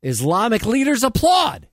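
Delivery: comedy newscast with punchy phrasing; mock news read. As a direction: read it like a satirical anchor. Reads mock news items.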